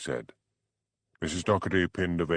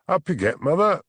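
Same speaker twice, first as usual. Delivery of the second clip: put-on posh voice, much higher; mock-cheery posh gent, pitched well up; 8 semitones higher, 5 dB louder than usual. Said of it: "putting on his posh voice".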